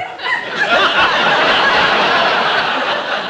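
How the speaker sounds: a high, breathy, wheezing cackle; forced laugh. Acted. Drill sergeant demonstrating a laugh to the silent platoon. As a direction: show them how laughing is done.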